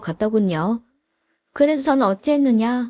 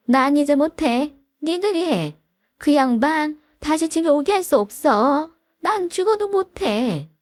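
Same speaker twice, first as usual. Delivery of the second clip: lightly voiced mother-in-law, higher and drawn out; fed-up mother-in-law; 4 semitones higher than usual. Mother-in-law refusing to care for her husband, lightly fed up. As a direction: refuse with mild acted weariness.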